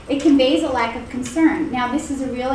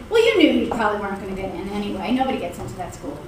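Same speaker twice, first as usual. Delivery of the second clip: dismissive teacher; 5 semitones lower, faster than usual. Retold or imitated. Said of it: "the teacher said".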